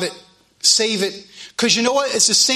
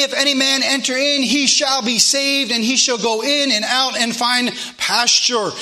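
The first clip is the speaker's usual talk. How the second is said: measured, emphatic Bible reading from the pulpit; preacher's declamatory scripture reading. Real, not acted. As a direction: read the verses out firmly, drawing out key phrases. Reads scripture aloud to congregation.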